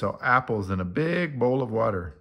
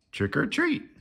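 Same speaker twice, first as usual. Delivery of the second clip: put-on children's call; 12 semitones higher than usual. A narrator's reading.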